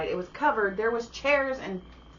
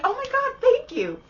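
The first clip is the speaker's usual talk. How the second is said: high, louder gushing thank-you; 5 dB louder than usual. Retold or imitated. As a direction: gush like you've been blessed.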